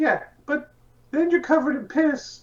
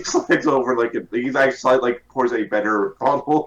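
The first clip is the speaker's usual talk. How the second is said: deep bartender voice. Acted. S1 voicing bartender, far low.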